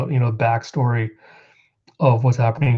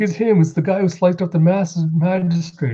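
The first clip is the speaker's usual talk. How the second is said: panicked high voice; 5 semitones higher than usual. Retold or imitated. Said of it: "It's like".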